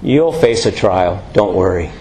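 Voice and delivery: a hint of a kindly elderly church brother; polite old man. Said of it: "very politely and said".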